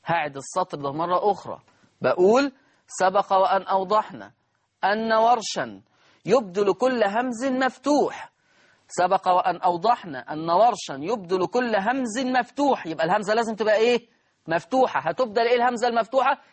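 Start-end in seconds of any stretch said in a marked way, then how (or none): 2.9-12.9 measured dictation with pauses between phrases; classroom dictation. Acted. Teacher dictating a rule to students, dictation voice. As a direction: dictate it phrase by phrase, stretching the key words.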